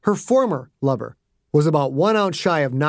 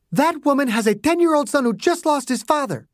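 high, insistent angry voice; a hint of fury; 11 semitones higher than usual. A narrator's reading. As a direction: jab each word at him. Margaret furious at agents.

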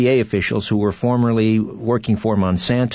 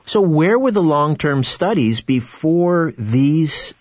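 sarcastic. Real, not acted. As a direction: ask it with a sarcastic edge. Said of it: "I asked sarcastically".

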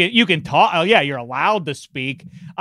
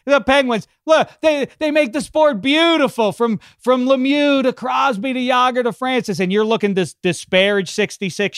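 heated rant; 8 semitones higher than usual. Real, not acted. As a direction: pitch rising high in a heated rant. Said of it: "I'm sorry I got angry there".

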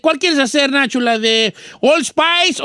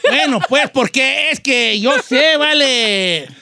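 put-on old ranchero character; 2 semitones higher, slower than usual. Don Cheto defending his usual voice to cohosts, old ranchero character. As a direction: stretch it out like a folksy old man.

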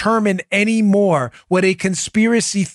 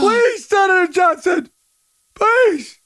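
crying mock plea; 13 semitones higher, slower than usual. Host mimicking the anchor begging, crying with laughter. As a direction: beg through tears of laughter. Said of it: "I'm crying".

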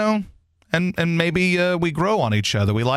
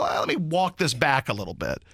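mock sheepish retreat; 3 semitones lower, 4 dB quieter than usual. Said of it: "they'd go".

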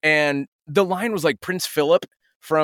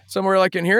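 slightly younger voice; 4 semitones higher, faster than usual. Shown as a demonstration. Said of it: "maybe a little younger".

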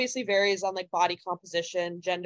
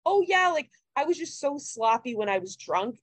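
imitated breezy admission, pitched up at first; lighthearted; 4 semitones higher than usual. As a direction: toss it off like a funny drunk story. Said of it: "in a very, like, lighthearted way".

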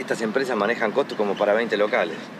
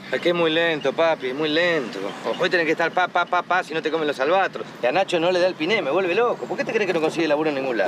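exasperated rant; 4 semitones higher than usual. Acted. Son rants about lazy brother.

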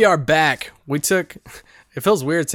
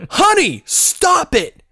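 high, loud exasperated yell; shouted reprimand, pitched way up; yelling at the dog; 7 dB louder, much slower than usual. Retold or imitated. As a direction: yell a scolding command down the phone at your dog.

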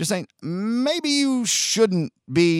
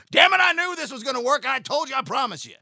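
mock rich powerful man; 10 semitones higher, faster than usual. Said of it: "They have to fight and fight".

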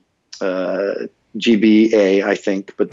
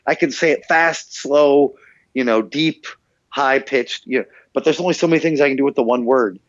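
higher-pitched, exasperated reasoning; exasperated protest; 5 semitones higher than usual. Retold or imitated. Worn-out voice actor arguing with the recording team over one word, exasperated. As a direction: protest as if at the end of your patience. Pleading with the sound engineer.

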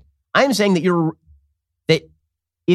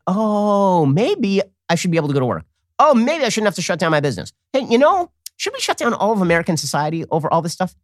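mock Democrat epiphany; 3 semitones higher than usual. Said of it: "they went".

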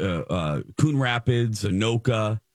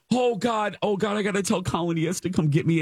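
high, fast frantic self-talk; retold panic; 8 semitones higher, faster than usual. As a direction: rush it out in a raised, panicky voice. Retold panic over missed train.

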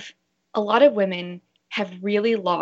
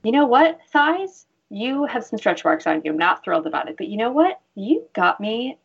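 talking to her thighs; 3 semitones higher than usual. Shown as a demonstration. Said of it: "So I'll look at it and say".

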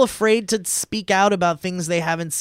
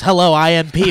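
Pee-wee doll voice; 5 dB louder than usual. Retold or imitated. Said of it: "doll that you pull the string and he goes".

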